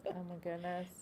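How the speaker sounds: talking between sips of a drink; sipping through a straw. Real, not acted. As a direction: speak while sipping a drink. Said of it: "I'm sorry I keep drinking this".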